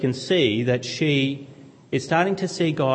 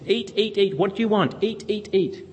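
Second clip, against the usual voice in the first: high coaxing mother voice; doting mum; 7 semitones higher than usual. Retold or imitated. Mother urging her son to eat, high and coaxing. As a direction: coax him to eat like his mum. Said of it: "and she's".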